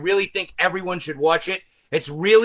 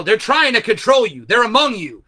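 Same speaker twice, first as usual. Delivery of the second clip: raised, urgent broadcast voice; hijacked TV broadcast warning; old man on TV; 4 semitones higher, 4 dB louder than usual. Retold or imitated. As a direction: warn them like a crazed old man. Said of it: "there's an old man going".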